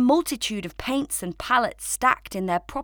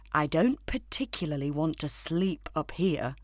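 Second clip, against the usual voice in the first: growling; 4 semitones lower, 4 dB quieter than usual. Acted. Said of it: "he growled".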